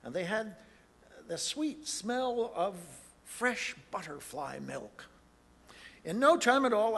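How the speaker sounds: lively read-aloud of a rhyming tale; animated children's story narration; storybook reading. A narrator's reading. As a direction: tell it like a picture book to a crowd. Reads the Once-ler's story aloud.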